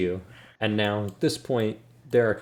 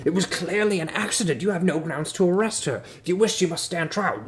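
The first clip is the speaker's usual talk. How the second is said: higher-pitched, insistent guard; protesting guard; 8 semitones higher than usual. Acted. Other guard disputes the arrest, high-pitched protest. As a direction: argue back in a high, indignant voice.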